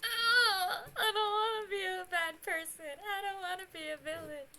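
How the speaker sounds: high whimpering protest; whiny mock crying. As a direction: whine it like a fake sob. Character whining, crying.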